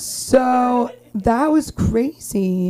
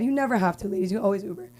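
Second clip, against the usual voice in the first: ad voice; 4 dB quieter, much faster than usual. Shown as a demonstration. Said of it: "That's like an Uber ad".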